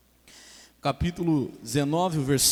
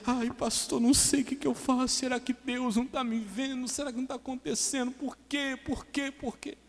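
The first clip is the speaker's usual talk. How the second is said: higher-pitched plaintive mock wail; mock lamenting churchgoer; 8 semitones higher, 3 dB quieter than usual. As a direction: imitate a woman moaning to her pastor. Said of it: "Uma senhora".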